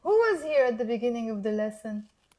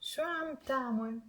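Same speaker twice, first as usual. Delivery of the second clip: softly, slowly model the phrase; measured, careful repeat-after-me delivery; slow teaching demo; 9 dB quieter than usual. Shown as a demonstration. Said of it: "I'm gonna say it slowly".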